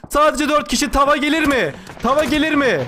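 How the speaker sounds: excited esports endgame call; live play-by-play. Real, not acted. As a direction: build suspense over the last survivors. Commentary on last enemies. (heyecanlı canlı maç anlatımı)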